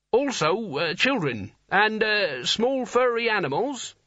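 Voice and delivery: high, faltering nervous voice; nervous Nigel. A narrator's reading. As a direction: add it hesitantly, pitch climbing. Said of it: "He added".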